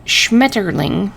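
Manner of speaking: Schmetterling said very slowly, each syllable apart; slow German word. Shown as a demonstration. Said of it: "I gotta say it again".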